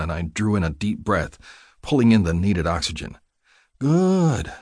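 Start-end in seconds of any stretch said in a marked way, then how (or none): 3.8-4.5 soothing. A narrator's reading. Nurse calming a patient's breathing, soothing. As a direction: reassure gently, letting the voice settle. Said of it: "the voice soothed".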